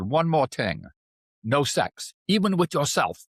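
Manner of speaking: a deliberately bad Chinese accent imitating the teacher; poor Chinese accent. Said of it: "I'm gonna do a very poor accent".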